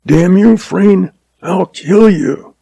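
high-pitched furious cry, stopping short of full volume; narrated scream. A narrator's reading. Cornered gunman threatening his rival, a restrained scream. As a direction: break suddenly into a high, drawn-out threat. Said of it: "Callan screamed, breaking suddenly".

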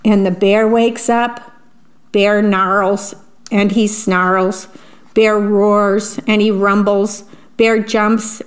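slow, rhythmic storybook read-aloud; reading to children. A narrator's reading. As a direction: savour each rhyme for little listeners. Reads picture book aloud.

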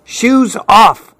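high-pitched grandma's order. A narrator's reading. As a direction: give a child a brisk household order. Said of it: "orders Grandma".

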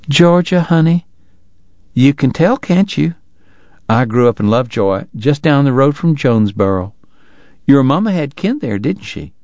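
doting wife greets the ragged traveler, high and fussing; fussing Southern lady. Acted. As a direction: coo over the sick boy in a high voice. Missus Segar chats about home.

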